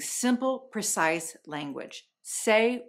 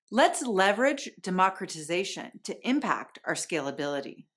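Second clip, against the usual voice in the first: buzzword speak. Shown as a demonstration. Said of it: "What I just did there was I strung together buzzwords".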